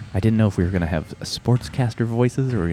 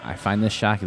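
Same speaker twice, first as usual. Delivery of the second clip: usual speaking voice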